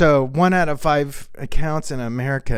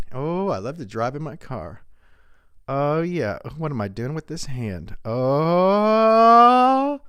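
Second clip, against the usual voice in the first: Mark Cuban improv. Retold or imitated. Comic improvising the billionaire alone in his car, hushed. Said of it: "I'm gonna do an improv of Mark Cuban".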